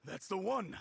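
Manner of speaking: excited recognition. Acted. Owner recognises his ring.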